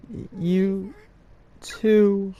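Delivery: surprised. Real, not acted. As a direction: caught off guard by a sudden ghost. Startled at a second ghost.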